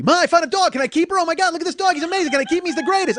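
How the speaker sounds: put-on high, loud excited child voice; little girl. Little girl begging Ma to keep found dog, excited. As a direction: beg like a thrilled kid, hammed-up. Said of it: "I'm the little girl who found Snoopy".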